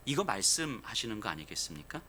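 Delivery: usual speaking voice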